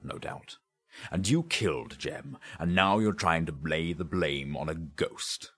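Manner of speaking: forceful, emphatic interrogation; accusing inspector. Acted. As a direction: press the accusation, then demand the jewels.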